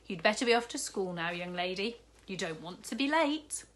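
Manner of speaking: a jolly newsagent, lightly voiced, cheerful; kindly shopkeeper. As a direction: play the big jolly shopkeeper, bargaining kindly. Raj figure voice.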